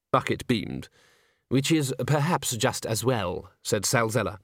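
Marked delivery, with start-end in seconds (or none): 1.5-3.5 slow dry gentleman. Acted. Sal Zeller again.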